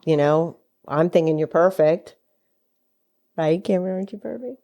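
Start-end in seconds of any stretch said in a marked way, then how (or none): 3.3-4.6 put-on baby talk. Baby talk to newborn son.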